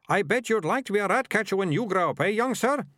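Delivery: high, loud sneering rat catcher; squeaky mocking thug voice. A narrator's reading. Second rat catcher speaks.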